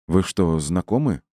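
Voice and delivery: mildly flustered question; a touch of confusion; bewildered. Acted. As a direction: ask it, a little thrown. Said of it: "растерянно спросила мама кошки".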